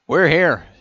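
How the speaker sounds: high, loud call; shout. A narrator's reading. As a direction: shout out to be heard. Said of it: "Antonov shouted".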